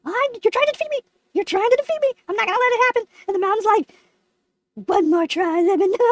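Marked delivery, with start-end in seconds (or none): 0.0-3.0 mildly hammed-up indignation; furious at mountain. Lemon accusing the mountain of defeating him, mock furious. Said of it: "I'm just furious". 4.7-5.9 lower, lightly voiced mountain; talking mountain. Mountain urging Lemon to try once more, lightly voiced. Mountain answers him, acted voice.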